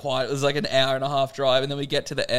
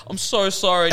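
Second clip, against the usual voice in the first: mock panicked apology; 6 semitones higher than usual. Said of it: "you're, like, freaking out".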